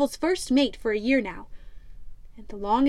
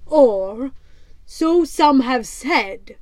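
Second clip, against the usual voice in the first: louder, gruff pirate captain scoffing; Black Stash; 6 dB louder, much slower than usual. Acted. Pirate captain mocks the rival ship, loud and scornful.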